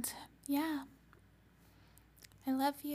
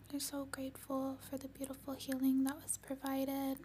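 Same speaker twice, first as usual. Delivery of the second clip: whispered gratitude; faster than usual. Acted. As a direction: whisper thanks serenely. Gratitude in session.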